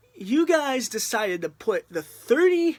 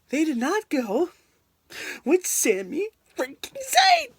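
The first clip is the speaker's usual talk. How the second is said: rising exasperated complaint, pitch climbing; building frustration; indignant; 4 semitones higher than usual. Real, not acted. Fan ranting at WWE over the Rumble winner, rising indignant complaint.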